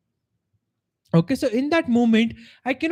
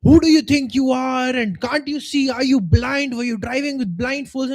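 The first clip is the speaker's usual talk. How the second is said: mock road rage; 3 semitones higher than usual. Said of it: "start raging at the other person".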